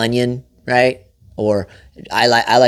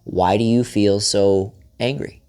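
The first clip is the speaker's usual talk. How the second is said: calm question; 4 semitones lower, slower than usual. Shown as a demonstration. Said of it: "And just ask her".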